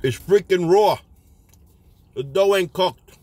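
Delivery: talking while chewing; eating while speaking; mouth full of pizza. Real, not acted. Seen 2: holds bitten slice; lips close between words, jaw moving as if chewing.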